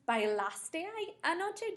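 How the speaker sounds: anoche rising high at the end; question model again. Shown as a demonstration. Teacher repeats the question to a student, rising. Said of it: "if I wanted to say".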